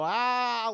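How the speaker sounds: mild mock "Ah"; a brief, half-hearted startling cry; demonstrated scare cry. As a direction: show how to cry out and scare someone. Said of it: "So you scare her, go".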